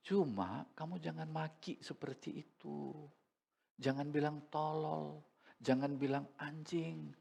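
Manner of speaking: soft, quiet, patient correction; tender father. Retold or imitated. Father softly teaching his son not to curse, tender and quiet. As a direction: talk it down gently like a loving dad.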